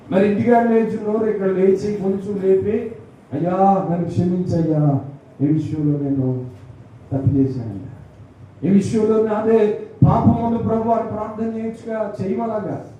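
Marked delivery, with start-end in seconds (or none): 3.3-10.9 low, slow repentant plea; a sinner owning up in prayer; humble confession. Shown as a demonstration.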